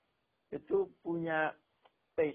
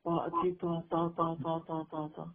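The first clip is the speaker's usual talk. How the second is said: echo demo; 2 semitones higher than usual. Shown as a demonstration. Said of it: "Nanti ada suara datang kan, kalau ada gema gitu".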